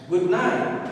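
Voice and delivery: "night" stressed, with a rising tune. Shown as a demonstration. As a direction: lean on "night" as the second word. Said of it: "words kedua ya".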